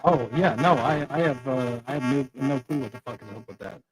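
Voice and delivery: glitchy robotic audio. Real, not acted. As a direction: voice coming through like a robot. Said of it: "is that your audio messing up like that".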